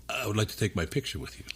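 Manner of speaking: softly spoken Indian English; Indian accent. Retold or imitated. Women ask his wife for a picture, Indian accent. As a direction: quote her politely in an Indian accent. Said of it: "That's a really good Indian accent".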